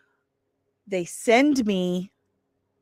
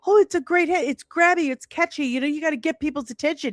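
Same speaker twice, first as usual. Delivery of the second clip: mock newspaper editor; 8 semitones higher, much faster than usual. Mocking the newspaper's excuse.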